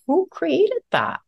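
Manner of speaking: high, loud, slow rhetorical outrage; indignant question. Real, not acted. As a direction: challenge the room. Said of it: "And I'm like".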